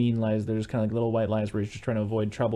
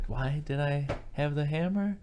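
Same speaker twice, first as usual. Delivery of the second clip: slow, higher-pitched puzzled echo; uncomprehending; 4 semitones higher, 3 dB quieter, slower than usual. Retold or imitated. Brother acting lost when sisters ask about the hammer, uncomprehending. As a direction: repeat it slowly as if not following. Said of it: "he doesn't fully understand what they're saying".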